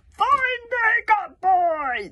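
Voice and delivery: high, piercing witch's call; witch shouting. A narrator's reading. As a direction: shriek it out like a witch. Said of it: "the witch was shouting".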